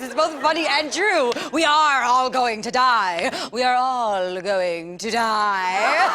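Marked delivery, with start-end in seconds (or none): 3.5-6.1 slow, drawn-out with a laugh; slow laughing repeat. Shown as a demonstration. Comedian repeating the punchline slowly, laughing. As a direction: stretch it out, laughing. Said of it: "repeated slower".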